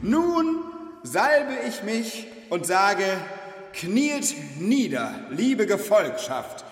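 high, slow royal command; pompous king. Pretend. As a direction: command the court grandly. Mock king addresses his followers. (pompöser König)

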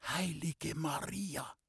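breathless, faint, slow gasp of horror; shocked gasp. A narrator's reading. Loni, white as the wall, gasps in breathless horror. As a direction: barely get the words out, stunned. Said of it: "Mühsam rang sie nach einem Wort".

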